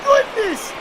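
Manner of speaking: high, slow, stunned home run call; panting shaky eyewitness. Real, not acted. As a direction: shout it in disbelief, stretched out. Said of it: "Excellent call there".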